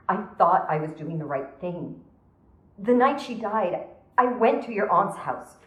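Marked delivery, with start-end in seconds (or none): 2.8-5.6 distraught, rising confession; agitated confession. Acted. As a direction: let guilt push the voice up.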